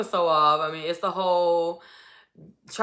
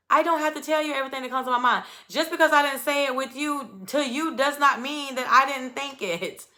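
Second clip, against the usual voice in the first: much higher, fast, indignant diva voice; sassy comeback; 6 semitones higher, faster than usual. Retold or imitated. Imitating Jasmine snapping back at Zach, high and sassy. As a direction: toss it back at him, high and outraged.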